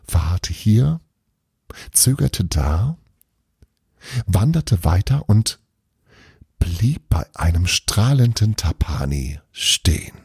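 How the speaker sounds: expressive storyteller with deliberate pauses; story narration. A narrator's reading. Narrator telling of an ice-sculpture contest, storytelling. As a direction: read it out as a story, lingering between phrases.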